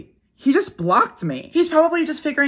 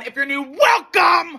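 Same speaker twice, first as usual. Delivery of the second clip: cheery shout; 7 semitones higher, 4 dB louder than usual. Real, not acted. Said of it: "It's time for the Daily Scream!".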